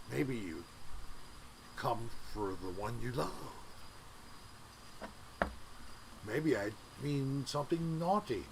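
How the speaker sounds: low, soft smarmy crooner voice; lounge lizard voice. Pretend. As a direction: purr it like a sleazy lounge singer. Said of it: "my fake, uh, lounge li-, lizard voice".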